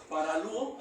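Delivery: "paralúo" with the stress on the ú; Greek word. Shown as a demonstration. Preacher teaching the Greek word, "paralúo" stressed on the ú. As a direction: say "paralúo" leaning on the ú. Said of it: "acento en la U".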